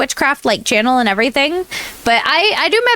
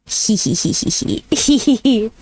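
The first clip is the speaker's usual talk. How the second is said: giggling; 3 semitones lower than usual. Real, not acted. Giggling after choosing one more.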